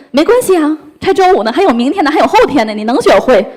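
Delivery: put-on overexcited mother rallying a sad child; upbeat excited cheering. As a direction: cheer the child on, all fired up. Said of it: "我很高昂，很激动".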